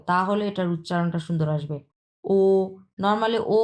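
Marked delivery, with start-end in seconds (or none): 2.2-2.4 "ও" with fully rounded lips. Shown as a demonstration. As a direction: say "ও" as a long, round o. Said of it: "exactly round shape হতে হবে".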